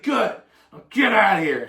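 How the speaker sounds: high, loud shooing-off voice; dismissive big sister. Retold or imitated. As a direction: send him away with a high bark. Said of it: "and she's like".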